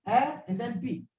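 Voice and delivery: "Ha", then "P" as a separate high beat; syllable by syllable. Shown as a demonstration. Teacher breaking happy in two, syllable by syllable. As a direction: sound out "Ha" and "P" apart. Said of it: "Two syllables".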